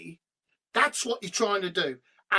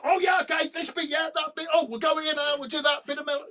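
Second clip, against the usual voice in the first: higher, quick eager planning; excited chatter; 6 semitones higher, faster than usual. Retold or imitated. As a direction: rattle off ideas with excitement. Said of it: "We're like".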